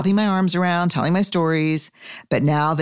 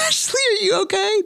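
laughing question. Real, not acted. Laughing at co-host.

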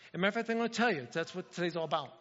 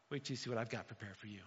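hushed God voice; 8 semitones lower, 13 dB quieter, faster than usual. Acted. God quoted bragging, then hushed.

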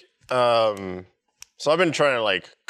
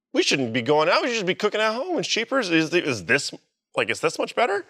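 excited chatter; 8 semitones higher than usual. Retold or imitated. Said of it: "And we're like".

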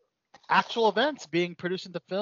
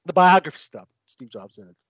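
strained talk through a choke; sputtering, water down the wrong pipe; choking on a drink; 3 semitones lower, faster than usual. Real, not acted. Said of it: "Water's going in the wrong hole".

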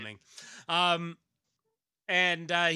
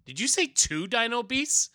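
alarmed hero; 11 semitones higher, 7 dB louder than usual. Acted. Hero's alarmed question.

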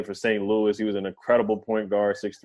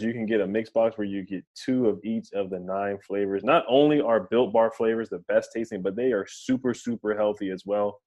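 hard sell ad. Acted. Sponsor ad read in podcast.

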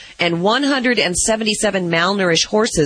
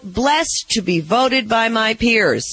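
quoted player words; 4 semitones higher, much slower than usual. Retold or imitated.

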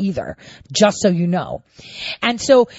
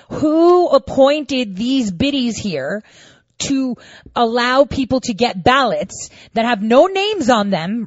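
slow, higher, drawn-out contempt; slow seething outrage; 5 semitones higher, slower than usual. Retold or imitated. Thinking about the poll workers, slow and seething. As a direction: spell out your fury word by word. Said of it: "I was so irate".

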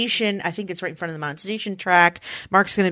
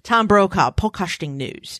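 newsreader read of "Tom Brokaw, podcasting news", part British; half British anchor. Shown as a demonstration. Host correcting the impression name, British anchor voice. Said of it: "a little British and a little Tom".

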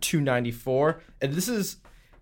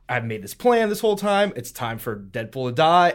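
mock villain declaration; 5 dB louder than usual. Acts out Madcap's scheming quote.

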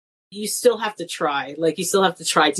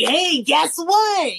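teasing; 9 semitones higher, much slower than usual. Retold or imitated. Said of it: "and I'm like".

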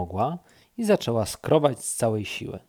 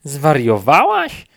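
loud, slow incredulous shout; shouting back; 3 semitones higher, 10 dB louder, slower than usual. Acted. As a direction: yell it back up the tree. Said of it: "odkrzyknął królik". (królik odkrzykuje głośno i powoli)

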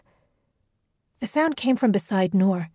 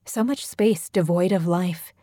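plain reading voice

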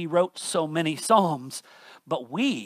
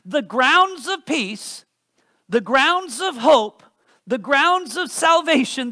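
impassioned preaching; 4 semitones higher, 4 dB louder than usual. Acted. Preacher building a list.

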